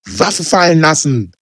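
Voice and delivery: high, loud barked order; officer shouting over gunfire; police command. Acted. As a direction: yell the order again.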